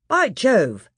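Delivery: high, loud delighted exclamation; pleased boy. Acted. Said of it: "said Peter".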